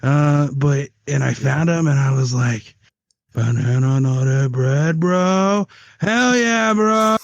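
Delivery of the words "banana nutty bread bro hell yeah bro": rising to high stoked squeal; excited stoner guy. Retold or imitated. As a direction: get giddy over a snack. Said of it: "banana nut bread at work guy voice".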